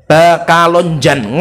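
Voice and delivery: Arab-accented "Bakalonjan", B for P and "jan" for "ngan", drawn out. Shown as a demonstration. Teacher shows how Arabs say Pekalongan, imitated Arab accent. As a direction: say "Bakalonjan" slowly as an Arab speaker would. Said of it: "Dan sekali kalau ngomong P bagaimana?".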